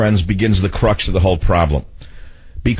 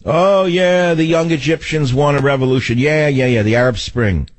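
high, mocking gush that slides down; lightly hammed-up mock enthusiasm; mock idiot screaming; 5 semitones higher than usual. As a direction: mimic an overexcited fool cheering. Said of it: "screaming like the idiot he is".

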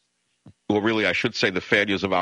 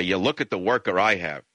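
sarcastic; 3 semitones lower than usual. Retold or imitated. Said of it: "sarcastically say".

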